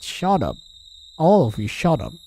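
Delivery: acted scream. Tormented youth yelling back at voices in his head, a mild mock scream. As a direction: shout them down, half-held. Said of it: "I screamed back at the voices".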